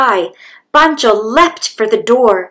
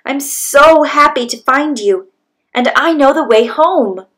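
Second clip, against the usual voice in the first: happy son; 5 semitones higher, 3 dB louder than usual. Acted. Son reunited with father.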